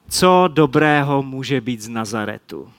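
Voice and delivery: nižším hlasem, pochybovačně; skepticky a cynicky. Acted. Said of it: "Tahle skeptická, cynická Natanaelova odpověď". (Natanael skepticky odpovídá Filipovi, nižší cynický tón)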